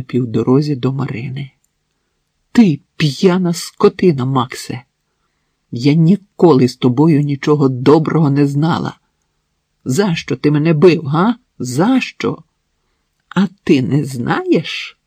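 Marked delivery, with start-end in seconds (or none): 2.5-12.4 accusing outburst. Acted. Marina accuses her abusive husband. 13.3-15.0 slow, snide retort; mock her with a slow sneer. Husband sneers at his wife's question, snide. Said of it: "єхидно мовив той".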